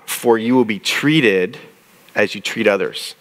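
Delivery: slow, deliberate Bible reading; measured scripture read aloud. Shown as a demonstration. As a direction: read the verse slowly, weighing each word. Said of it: "look at verse two".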